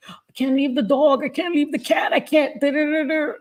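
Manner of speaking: high, whiny mock protest; mocking her own list of excuses; making excuses. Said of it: "I was making every excuse in the book".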